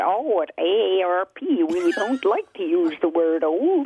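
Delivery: bad, very slow, quavery American accent. Quoting a person on the phone at AARP, bad American accent. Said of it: "I'm very bad at doing an American accent".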